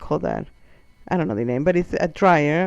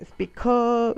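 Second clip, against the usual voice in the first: mock yell of a made-up Spanish word; retold scream; 5 semitones higher than usual. A man calling to the foreigner, mild mock scream. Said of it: "he screamed something".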